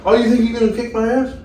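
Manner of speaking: high, loud, fast taunting challenge; hammed-up bar-fight taunt; retelling a friend's challenge as a mock threat; mock tough guy. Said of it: "Frank just come over".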